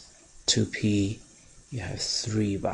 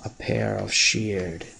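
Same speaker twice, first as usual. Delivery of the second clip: the word shared said slowly and leaned on; stress on shared; slower than usual. Shown as a demonstration. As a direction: hold back the pace and press on shared. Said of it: "I emphasize the word shared".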